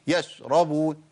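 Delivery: ش in يشربون chopped off toward a j; cut-off shin. Shown as a demonstration. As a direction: cut the sound of ش short in يشربون. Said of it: "أو قطعت الصوت في الشين".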